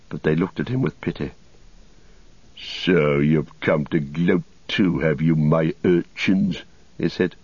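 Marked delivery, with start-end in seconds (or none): 2.6-6.6 lightly voiced sneering wizard; slow, measured taunt; Saruman.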